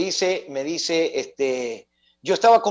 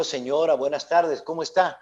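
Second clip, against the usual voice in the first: polite quiet reply; 4 semitones lower, 5 dB quieter than usual. Retold or imitated. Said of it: "Le digo".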